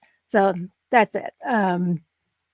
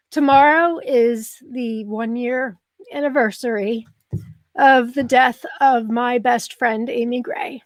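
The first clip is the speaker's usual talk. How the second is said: tearful. Real, not acted. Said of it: "Ooh, here I go".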